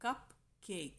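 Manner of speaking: CUP, CAKE as two separate slow beats; equal stress. Shown as a demonstration. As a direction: give "cup" and "cake" even weight, slowly. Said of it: "equal stress on both syllables".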